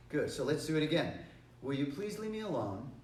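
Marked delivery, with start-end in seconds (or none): 1.6-2.9 mildest, polite asking; nice request. Shown as a demonstration. First of three requests to someone bothering you, politely. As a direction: ask gently, without pressure. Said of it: "each time I get just a little bit stronger".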